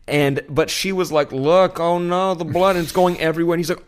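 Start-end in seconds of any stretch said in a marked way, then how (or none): 1.3-3.6 high, louder imitation of alarm; mock panic. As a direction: act out a passenger's dismay in a raised pitch. Retold passenger panics at her bleeding.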